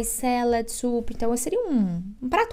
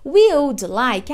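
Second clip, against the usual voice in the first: We slowly, stress on "We" in "We would like"; slow model phrase; 2 semitones higher, 7 dB louder, much slower than usual. Shown as a demonstration. Teacher modelling "We would like" for students, slowly. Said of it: "Então, você vai pedir".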